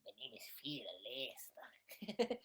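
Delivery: slow, strained put-on voice; attempted Phil impression. Streamer hunting for a rival's voice, slow mock impression. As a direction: draw it out in a silly fake voice. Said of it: "okay, Phil impression".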